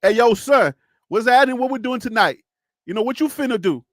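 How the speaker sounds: casual Black American slang accent; Black American street accent. Shown as a demonstration. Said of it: "you're hearing a different accent".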